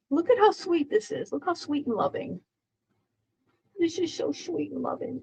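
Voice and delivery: hushed cooing over the kitten; soft pet-voice praise. Real, not acted. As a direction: melt over how sweet she is.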